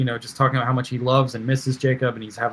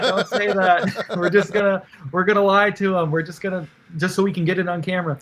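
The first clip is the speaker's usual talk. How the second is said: laughing protest; 6 semitones higher than usual. Retold or imitated. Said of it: "And I was like".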